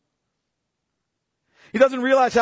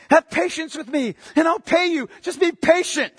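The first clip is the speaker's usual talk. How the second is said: pleading servant; 5 semitones higher than usual. Acted. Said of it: "the guy even uses the same words".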